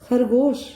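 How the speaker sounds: खरगोश में ज़ोर से ख़; fricative kh. Shown as a demonstration. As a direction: scrape the ख़ in खरगोश. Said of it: "इसमें भी बिंदी रहती है".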